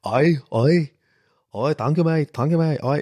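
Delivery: schlechter schottischer Akzent; übel gespielter schottischer Akzent; bad Scottish accent. Shown as a demonstration. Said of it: "so ein übel schottischer Akzent". (mieser schottischer Akzent)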